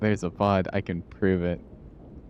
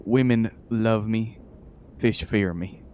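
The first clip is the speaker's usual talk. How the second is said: southern saying. Acted. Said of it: "As we like to say in the South".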